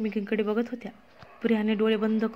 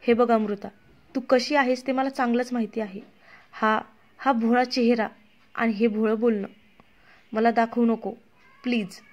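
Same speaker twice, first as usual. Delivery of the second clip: angry. Acted. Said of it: "Priya रागात म्हणाली".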